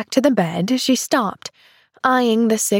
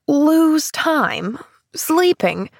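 higher, incredulous questions; exclaiming in disbelief; 7 semitones higher, much slower than usual. Acted. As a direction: echo the words in astonishment. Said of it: "exclaimed the sick woman".

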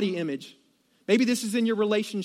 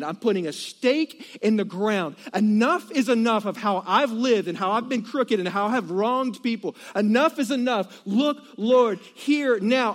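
yelling declaration. Acted. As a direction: proclaim it like a man who has had enough. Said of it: "So he's actually yelling".

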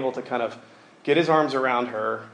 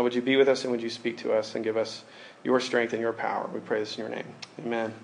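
prayer. Real, not acted. Opening prayer.

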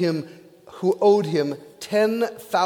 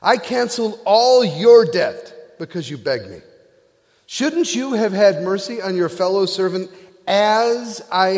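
stern rebuke; 3 semitones higher, 4 dB louder than usual. Acted. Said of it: "the king called the servant in and said".

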